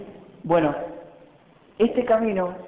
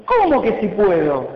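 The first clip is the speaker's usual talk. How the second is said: mock indignant; 2 semitones higher, 4 dB louder than usual. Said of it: "se enojó y se calentó Jesús".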